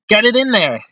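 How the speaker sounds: high, pleading push; will the puck into the net; urging shout. Real, not acted. Urging on a shot, pitch up.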